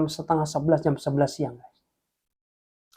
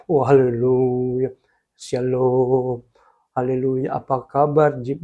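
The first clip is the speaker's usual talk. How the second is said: slow drawn-out hallelujah greeting, lower; churchy greeting; 3 semitones lower, 4 dB louder, slower than usual. Retold or imitated. A friend greets Jim, slow pious church hallelujah.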